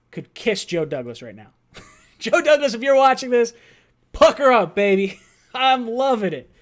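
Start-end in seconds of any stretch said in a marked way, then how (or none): 2.2-5.2 playful mock flirting. Joking kiss offer to GM.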